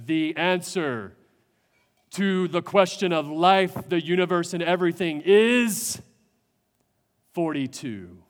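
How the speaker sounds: solemn computer. Retold or imitated. Computer announces the answer.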